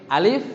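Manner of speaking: "alif" said short, without elongation; unstretched model of "alif"; correct short reading. Shown as a demonstration. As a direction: say "alif" briskly with a rising end. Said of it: "nggak gitu".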